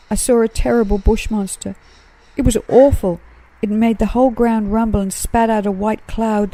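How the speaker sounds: put-on young koala telling his parents about the monster, scared; terror in his voice. A narrator's reading. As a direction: pour it out, still scared. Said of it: "with terror in his voice".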